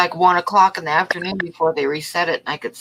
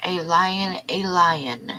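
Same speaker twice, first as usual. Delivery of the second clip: whisper; 4 dB quieter, much slower than usual. Real, not acted. Repeating the drawing subject.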